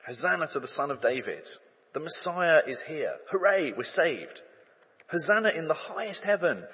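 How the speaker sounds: celebrating crowd. Retold or imitated. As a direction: rejoice as if salvation just arrived.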